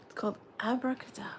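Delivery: fast hushed whisper; secretive quick whisper. Real, not acted. Naming the card secretively.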